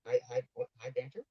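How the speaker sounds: echoing tunnel mic; wind tunnel. Real, not acted. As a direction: sounds like talking down a tube. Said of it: "He sounds like he's in a wind tunnel".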